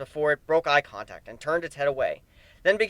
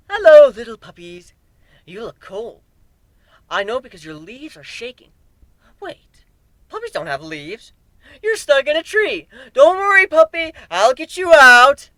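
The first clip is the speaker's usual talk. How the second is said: put-on high, sweet, unhinged baby talk; deranged cooing to a tree wolf; manic childlike glee; 9 semitones higher, 11 dB louder than usual. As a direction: coo at the monsters like a crazed child. Madness voice, childlike.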